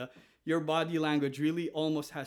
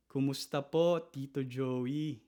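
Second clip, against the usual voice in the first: respectful greeting. Shown as a demonstration. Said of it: "Did you see what I did there?".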